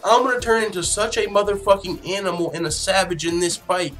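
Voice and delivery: mock quote. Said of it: "He said".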